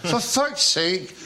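high, slow drawn-out name; Billy Connolly. Retold or imitated. Billy Connolly on the phone, slow high mock riff. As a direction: savour the name slowly, up high. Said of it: "He went".

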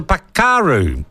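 pakaru in Maori vowels, pa-ka-ru, stress on the middle; Maori pronunciation. Shown as a demonstration. Host on air showing the Maori word, careful Maori pakaru. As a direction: say pakaru as a Maori speaker would. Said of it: "and if you're Maori".

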